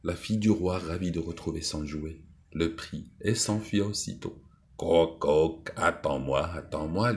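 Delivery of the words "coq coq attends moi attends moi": lightly called croak and plea; mock toad call. Toad calls after the fleeing princess, mild mock call. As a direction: call after her half-heartedly. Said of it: "lui criait le crapaud".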